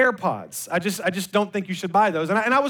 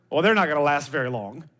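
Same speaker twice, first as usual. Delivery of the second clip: negative retort; 5 semitones lower than usual. Retold or imitated. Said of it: "I almost became negative".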